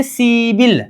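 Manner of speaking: "सिबिल" as a long see, then bil; correct pronunciation. Shown as a demonstration. Teacher models the changed sound for students, "सिबिल" pronounced with b. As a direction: say "सिबिल" with b in place of p. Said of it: "ग्यारह को बोलेंगे".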